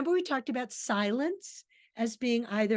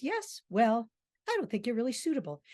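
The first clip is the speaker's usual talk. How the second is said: calm; faster than usual. Acted. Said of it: "Aston very calmly says".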